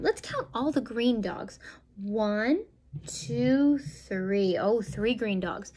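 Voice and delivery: slow, lilting picture-book read; reading to children. Acted. Parent reading a counting book to a toddler, slow and sing-song. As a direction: draw the little listener into each page.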